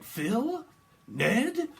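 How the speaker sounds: high, loud calling of names. Retold or imitated. Psychic voicing someone calling out names. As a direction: call across the field for them.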